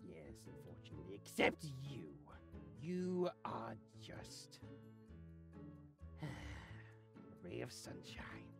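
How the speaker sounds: low, soft, weary deadpan; dry sarcasm. Acted. Grudgingly excepting Pip from the weapons, dry sarcasm.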